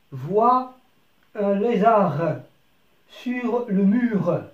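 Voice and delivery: very slow, drawn-out lézard and mur; slow dictation-style reading. Shown as a demonstration. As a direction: stretch every word for beginners. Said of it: "teacher models sentence slowly".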